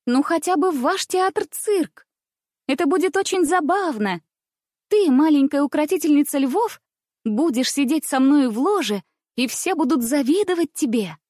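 put-on high girlish voice, a little proud and pleased; little aristocrat showing off her box; a touch of pride. A narrator's reading. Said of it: "не без некоторой доли гордости произнесла". (с лёгкой гордостью)

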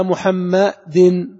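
محمد slow and loud, ending in "-din"; tanween with kasra. Shown as a demonstration. Teacher showing the two kasras, محمد stretched to end in "-din". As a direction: draw out محمد and land firmly on "-din". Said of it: "محمد كسرتان".

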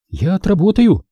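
put-on quick high girl's promise; hasty promise. A narrator's reading. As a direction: blurt it out in a hurry. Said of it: "поспешно пообещала девчонка".

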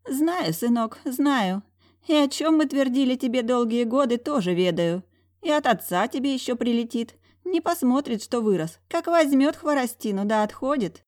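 put-on old aunt scolding. A narrator's reading. Old aunt teasing her nephew with mock threats. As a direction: fuss at him like a stern old aunt.

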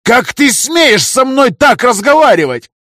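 very high, loud, slow indignant shout; furious shout. A narrator's reading. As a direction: roar the outrage. Councillor furious at trader.

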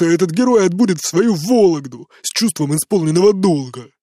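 put-on drunken tirade. A narrator's reading.

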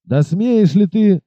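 captain furious at the innkeeper's cheek; outraged. Acted. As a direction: dare him, each word drawn out.

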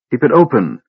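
panting after a hard run; breathless gasp. Acted. Laurana to the knights at the portcullis, breathless. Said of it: "she gasped breathlessly".

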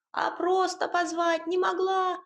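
a bustling little house spirit giving orders. Acted.

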